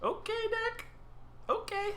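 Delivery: high, mock-cheerful sarcasm; sarcastic calm. Real, not acted. Player mocking his own bad deck, high sarcastic cheer. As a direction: pretend everything's fine, sarcastically.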